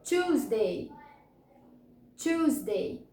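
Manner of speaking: "Tuesday" as CHOOZ-day, two syllables; model pronunciation. Shown as a demonstration. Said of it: "vamos pronunciar cada uma delas".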